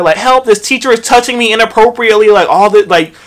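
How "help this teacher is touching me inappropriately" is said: mock cry for help. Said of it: "just making a joke out of it".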